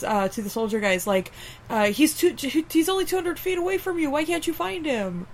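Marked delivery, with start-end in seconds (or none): 1.9-5.3 lightly voiced scientist, pitched up; exasperated scientist on headset. Scientist to soldiers over headsets, mildly exasperated and higher. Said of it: "were telling via the headsets".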